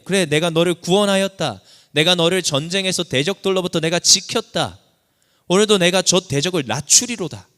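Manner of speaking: God's voice, loud and certain. Acted. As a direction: proclaim it as God speaking over you. Preacher voices God answering David.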